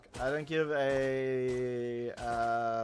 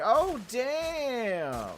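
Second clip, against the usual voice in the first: high, loud sassy oh damn; high sassy diva damn; diva exclamation; 10 semitones higher, 5 dB louder than usual. Pretend. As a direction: belt it like a diva. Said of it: "They want you to come down and say".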